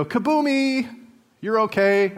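high, chirpy parent reassurance; kaboomy parent. Acted. Kaboomy parent to a fallen child, high easy reassurance. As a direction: chirp it high to soothe a kid. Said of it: "if you're a kaboomy parent".

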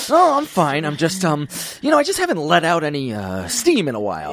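high strained fake-casual voice; tense friend voice. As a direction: force out a high strained breeziness. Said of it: "when he's, like, always grinding his teeth".

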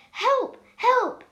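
high, loud croaky shout; two loud, high yelps; croaky cry for help. A narrator's reading. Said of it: "in a croaky voice".

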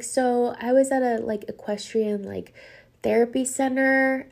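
lightly imitated little girl; sweet little girl. Girl explaining her trip to a woman, lightly imitated sweet voice. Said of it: "the sweetest, softest voice".

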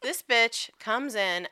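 can't keep a straight face as she starts the story; laughing. Real, not acted. Retelling her friend's office takeover to a cohost, laughing.

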